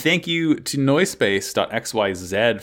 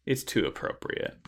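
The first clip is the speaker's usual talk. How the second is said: whispered; 10 dB quieter than usual. Real, not acted. Quiet repeat of the remark.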